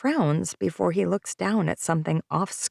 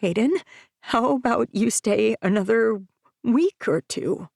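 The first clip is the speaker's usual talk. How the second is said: wobbly and unsure; 5 semitones higher, 3 dB louder than usual. Acted. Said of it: "My voice is wobbly and unsure".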